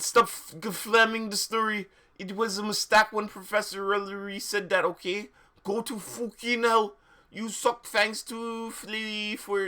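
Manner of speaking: put-on bratty teen author rant; mock angry author. Reading angry author's note.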